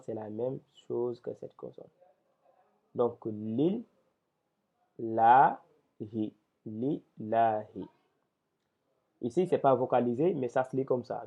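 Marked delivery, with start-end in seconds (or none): 3.2-7.9 detached syllables. Shown as a demonstration. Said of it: "que nous devons voir en détaché".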